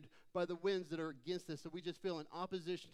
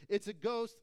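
louder, slowed outcry in a reading; mildly fearful cry; 3 semitones higher, 7 dB louder than usual. A narrator's reading. Disciples see Jesus on the lake, mildly fearful cry. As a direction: read it as a mild cry of fear. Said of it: "cried out in fear".

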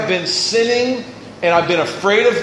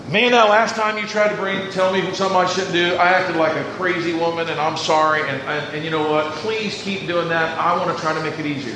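sincere apology; 5 semitones lower, 4 dB quieter than usual. Retold or imitated. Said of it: "you gotta be going".

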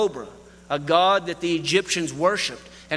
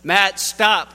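louder, urgent command; dad warns his son of the snake, louder and firm; firm warning; 5 dB louder than usual. Retold or imitated. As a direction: cut him off sharply to stop him. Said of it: "He goes".

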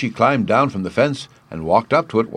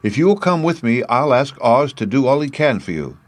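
higher-pitched, lightly voiced girl; kindly little girl; 5 semitones higher than usual. Dorothy offers to ask Oz for him, high and kindly. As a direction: offer help in a high girl's voice.

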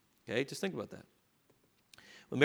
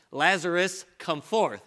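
called out; slower than usual. Shown as a demonstration. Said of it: "I just did it".

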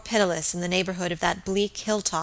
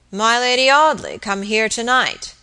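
surprised; 3 semitones higher, 6 dB louder than usual. Acted. Drunk landlord startled by news.

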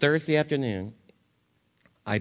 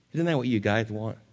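ordinary talk, nothing marked

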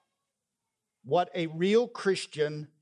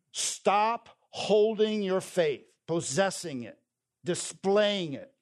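urgent pulpit preaching, pitched up and pressing; 3 semitones higher than usual. Acted. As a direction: drive the point home to the congregation.

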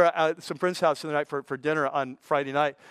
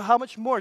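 "How much more" punched higher; emphatic repeat of "How much more"; stress how much more; 6 semitones higher than usual. Real, not acted. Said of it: "underline the next three words".

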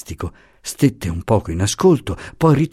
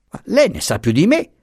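much higher, anger pushed down; barely held anger; 10 semitones higher than usual. A narrator's reading. Professor retorts to the accusing commissioner, barely suppressed anger. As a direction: choke back the rage. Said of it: "soffocando a stento la collera".

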